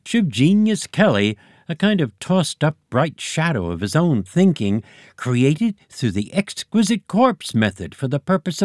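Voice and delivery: high, loud blustering egg boss; Eggy Senior voice. A narrator's reading. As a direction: bluster like a pompous egg chief. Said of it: "continued Eggy Senior".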